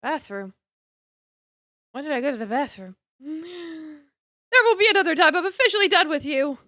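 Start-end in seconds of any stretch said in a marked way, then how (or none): 3.2-6.6 cold dismissal. Acted. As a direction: cut him off for good. Character breaks it off.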